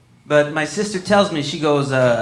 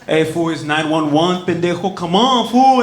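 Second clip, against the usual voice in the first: cholo scolding; 2 semitones higher, 6 dB louder than usual. Retold or imitated. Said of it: "And I was like".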